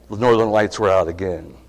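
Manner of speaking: usual speaking voice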